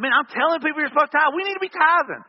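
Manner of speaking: pleading the point loud and high, exasperated; exasperated insistence. Retold or imitated. Pastor arguing with his wife about tithing, climbing near shout.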